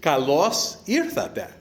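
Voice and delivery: "Kalos irthate" spelled out slowly and carefully, falling on irthate; teacher sounding out "Kalos irthate" for guests; Greek greeting taught. Shown as a demonstration. Best man teaching the wedding guests a Greek greeting, slow careful Greek. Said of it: "the common welcome greeting is".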